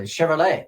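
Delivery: "Chevrolet" with no T at the end, shev-ro-LAY; French pronunciation. Shown as a demonstration. Teacher showing how the French T is eaten. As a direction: drop the final T of "Chevrolet". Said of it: "We ate the T at the end of Chevrolet".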